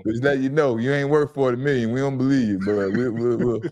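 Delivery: a hint of a calm executive turning him down; lightly voiced front-office brush-off; corporate GM voice. GM telling a player he isn't worth forty million, lightly corporate. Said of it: "I go corporate".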